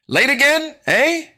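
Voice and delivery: high, loud sarcastic teacher voice; grumpy teacher. Acted. Grumpy teacher scolding the late narrator. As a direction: needle the late kid.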